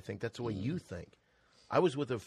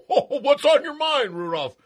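high, loud jolly Santa; hammy Santa with a chuckle; 13 semitones higher, 12 dB louder than usual. Acted. Santa speaks to Rudolph.

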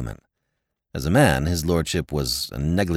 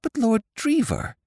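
high, urgent plea; alarmed young woman calling out; stopping him, high and urgent; Molly crying out. A narrator's reading. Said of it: "she cried".

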